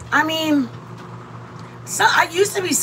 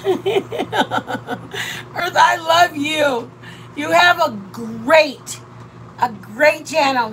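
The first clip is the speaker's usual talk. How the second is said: heartfelt thanks; 2 semitones higher, much slower than usual. Real, not acted. Thanking a fellow channel.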